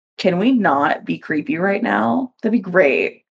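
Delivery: normal talking voice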